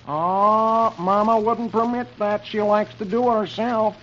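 comic son's doubtful objection; Alexander. Acted. Alexander objecting on Mama's behalf, high boy voice.

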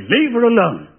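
arch camp English. Retold or imitated. A journalist holding up his press card to a policeman, arch and camp English. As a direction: say it like the most English man on the road. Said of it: "the archest, campest, most English person".

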